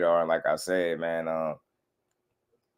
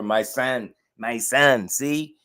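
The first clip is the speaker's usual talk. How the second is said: higher proud boasting dad, lightly put on; imitating bragging father; 4 semitones higher than usual. Mocking the father again as he boasts of his son's strength. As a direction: crow about your son's power. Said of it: "that's how he be".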